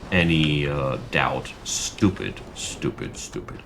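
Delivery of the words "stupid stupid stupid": softer and softer, down to a whisper; fading frustration. Real, not acted. Streamer fuming at his disciples, fading to a whisper. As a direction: repeat it, dying away each time.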